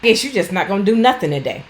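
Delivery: mild mock yell of a fed-up carer; sarcastic mock yell. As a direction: jab at them, fed up. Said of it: "you don't yell at them".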